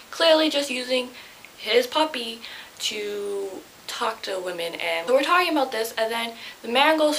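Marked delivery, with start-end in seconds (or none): 2.8-4.7 hushed creeped-out whisper. Real, not acted. Telling viewers about the creepy man, whispered. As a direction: drop to a whisper.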